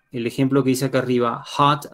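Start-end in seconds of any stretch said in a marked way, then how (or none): 1.4-1.9 "hot" with an audible H; teacher's demo of "hot", H sounded. Shown as a demonstration. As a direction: pronounce the H that opens "hot". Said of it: "ahí sí la H produce sonido".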